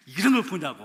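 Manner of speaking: loud mock scolding; a stern elder's rebuke, hammed up. Elder deaconess rebuking the pastor, mock loud scold. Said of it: "하면서 훈계를 하시더라고요".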